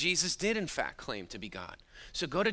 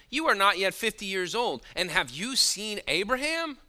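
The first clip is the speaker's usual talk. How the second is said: incredulous challenge; 5 semitones higher, 4 dB louder than usual. Retold or imitated. Reads the leaders' incredulous challenge.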